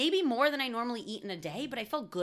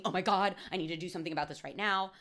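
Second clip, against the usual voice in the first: quick, lightly panicked inner voice; frantic thinking; faster than usual. Retold or imitated. Imitating a listener's anxious thoughts, lightly frantic and fast. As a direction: rush it like mild mock panic. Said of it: "frantically thinking".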